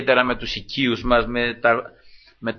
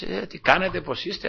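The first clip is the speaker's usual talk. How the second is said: softer, higher polite greeting; nicely polite; 5 semitones higher, 9 dB quieter than usual. Acted. Worker greeting the visiting director, softly polite. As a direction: greet the boss sweetly and softly. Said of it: "αυτά, όμορφα, ωραία".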